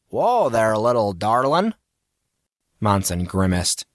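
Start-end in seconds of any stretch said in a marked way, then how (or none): 0.1-1.7 lightly hammed-up Western accent; teasing with a folksy cowboy accent; silly put-on Southern accent; put-on cowboy drawl accent. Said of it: "Casey used that stupid accent".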